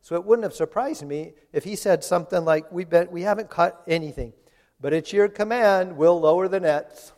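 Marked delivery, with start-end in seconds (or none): 2.7-7.1 sarcastic, a little louder compliance; mock-grudging yes with an edge; passive-aggressive. Tired fisherman grudgingly answering Jesus, passive-aggressive. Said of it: "That's a passive-aggressive statement".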